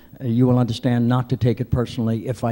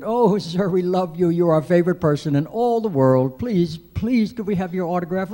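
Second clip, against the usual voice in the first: high-pitched, gushing imitation of young girls; excited preteen fans; 7 semitones higher, 4 dB louder than usual. Preteen girls beg a passenger for his autograph, mock-excited. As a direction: plead like star-struck preteens, pitched way up. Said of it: "they were all excited and said".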